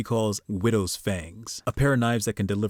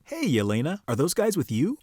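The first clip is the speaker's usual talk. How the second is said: lightly acted, higher-pitched questioning voice; mock-innocent neighbour, rising high; unsuspecting neighbour; 5 semitones higher than usual. Voices unsuspecting neighbour greeting Yelena.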